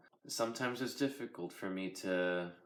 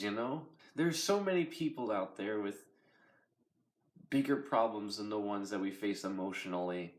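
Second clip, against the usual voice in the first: tearful. Real, not acted. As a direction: talk through tears. Emotional confession after breaking down.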